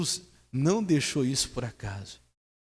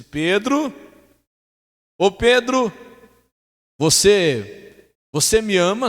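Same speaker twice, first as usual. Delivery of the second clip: higher and louder, calling out to Peter; lightly voiced Jesus; 8 semitones higher, 10 dB louder, slower than usual. Jesus asking Peter about his love, earnest. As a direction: plead the question with some urgency.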